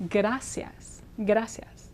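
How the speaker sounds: gracias with R as quick D tap after g; ga-da-sias, soft; gra like g'day. Shown as a demonstration. Teacher guiding students through gracias. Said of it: "Now say".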